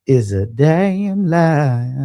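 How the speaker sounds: slow, drawn-out high pirate growl. Pretend. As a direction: ham it up like a pirate. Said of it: "trying to sound like a damn pirate".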